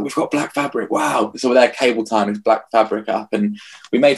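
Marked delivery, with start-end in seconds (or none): 0.0-1.3 mock awe. Mock awe over black fabric.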